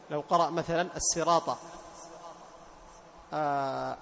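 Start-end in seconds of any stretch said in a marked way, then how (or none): 1.0-1.6 الصراط said with a light sin, no emphasis; thin the sad of الصراط into sin; الصراط with a thin sin sound; sad turned sin. Shown as a demonstration. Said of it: "أبعد تفخيم الصاد".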